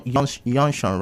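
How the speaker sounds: "yonshon" opening on a y glide; y for j in "yon, yon, yonshon"; Akwa Ibom y-sound. Shown as a demonstration. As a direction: say "yonshon" with a y in place of j. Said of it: "it's usually yeah".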